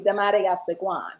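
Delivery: "Damaria Sagwan" in its cultural phonetic form; cultural pronunciation. Shown as a demonstration. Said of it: "phonetically pronounced culturally".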